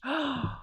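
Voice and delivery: soft, airy gasp of delight; hushed mock-thrilled gasp; excited gasp. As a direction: gasp at a lovely idea. Excited by sandwich idea.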